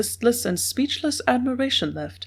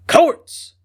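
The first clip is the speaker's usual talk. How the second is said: sudden eager cry, much higher and louder; fierce eagerness; 9 semitones higher, 8 dB louder than usual. A narrator's reading. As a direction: burst out the name with fierce eagerness. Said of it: "in sudden, fierce eagerness".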